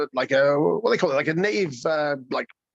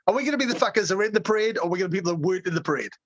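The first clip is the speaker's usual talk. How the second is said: fast pitch; much faster than usual. Retold or imitated. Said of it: "when they put it that way".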